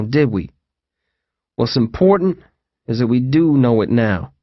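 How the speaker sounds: calm TJ. Acted. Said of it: "seeming amazingly calm".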